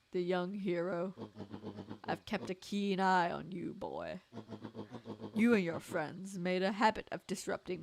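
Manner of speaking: smooth scheming villain, lightly voiced; a hint of a gloating mastermind. Villain addresses the boy.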